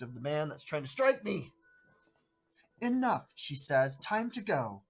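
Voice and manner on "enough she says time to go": firm half-orc mayor. Acted. Half-orc mayor stops the fight.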